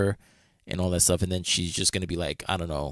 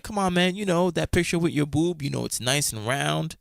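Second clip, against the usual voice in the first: higher-pitched mock pleading, easing down; retold coaxing; 8 semitones higher than usual. Friend pressing a woman for an old picture, mock coaxing. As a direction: imitate a friend pushing his luck.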